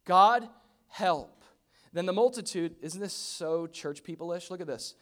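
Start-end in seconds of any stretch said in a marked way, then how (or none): 0.0-1.4 loud, raised plea to God; desperate, punched prayer; crying out. Acted. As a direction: cry out for help in short bursts. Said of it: "Cried out".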